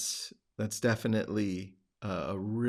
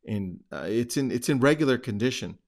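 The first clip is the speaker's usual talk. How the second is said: retold curt brush-off, louder and quick; a little aggressive; 6 dB louder, faster than usual. Imitating a slightly aggressive homeowner on the phone, a bit gruff. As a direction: mildly imitate a prickly caller. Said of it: "he was a little aggressive".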